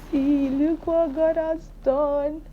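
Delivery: high, slow, awed praise; overwhelmed praise. Real, not acted. Vlogger tells viewers about her pregnancy, overwhelmed with joy. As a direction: marvel at what God did. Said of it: "Let me calm down".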